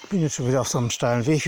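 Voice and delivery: panting up a steep path; breathing hard while walking uphill. Real, not acted. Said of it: "wie man hört".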